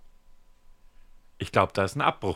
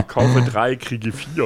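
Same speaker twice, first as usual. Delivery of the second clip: TV shopping pitch; much slower than usual. Retold or imitated. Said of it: "wie bei einem dieser komischen Fernseh-T V-Werbesender".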